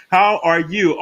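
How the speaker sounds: high and very slow, stretched out; drawn-out greeting. Real, not acted. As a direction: sing the question out long.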